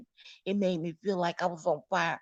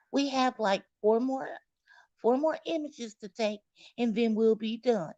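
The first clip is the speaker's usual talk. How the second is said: sweet nurse voice; 4 semitones higher than usual. Retold or imitated. Imitating nurse.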